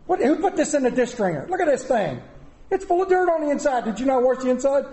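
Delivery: wife the inspector. Retold or imitated. Wife catches a dirty cup in the drainer, scolding. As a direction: play the wife checking the dishes, exasperated. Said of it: "here comes my wife, the inspector".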